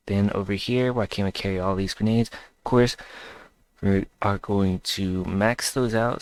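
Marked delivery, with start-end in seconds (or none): 2.3-6.2 words stretched by a stifled yawn. Real, not acted. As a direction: talk slowly through a half yawn. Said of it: "Sorry, I almost yawned there".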